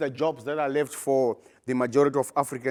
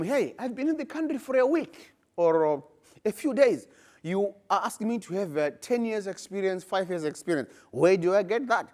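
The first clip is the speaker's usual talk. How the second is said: high, exasperated voice of a newcomer; frustrated migrant; 4 semitones higher than usual. Retold or imitated. Job seeker protesting to employer, exasperated and indignant. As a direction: plead like someone just off the plane.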